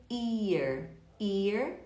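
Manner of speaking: "Ear" begun straight on the vowel, no H; dropped H. Shown as a demonstration. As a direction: say "ear" as if "here" had lost its H. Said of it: "Se você omitir o H".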